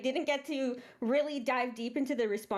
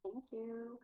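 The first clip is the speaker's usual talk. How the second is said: hallway sound; 12 dB quieter than usual. Real, not acted. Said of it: "you sound like you're in a hallway".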